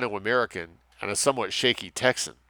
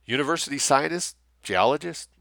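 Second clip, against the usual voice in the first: calling back; 6 semitones higher, 4 dB louder than usual. Acted.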